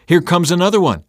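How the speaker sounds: lightly voiced watchman calling down; called down. A narrator's reading. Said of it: "He shouted down".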